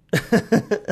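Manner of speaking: a bright burst of laughter; short high laugh; gleeful laugh. Real, not acted. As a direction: laugh at yourself, delighted. Laughs about losing it alone.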